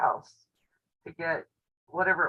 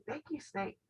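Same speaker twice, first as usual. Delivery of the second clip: much higher and softer, sugary politeness; mock polite thanks; 10 semitones higher, 11 dB quieter than usual. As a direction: sweetly thank the snake so it leaves you be. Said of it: "I'll just say".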